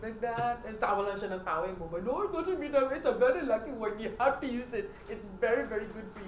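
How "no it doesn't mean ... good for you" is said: lightly imitated Indian accent. Indian shop owner reassures a customer, light Indian accent. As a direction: retell it in a hint of Indian accent. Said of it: "bukod nga pala sa mga Indian accent".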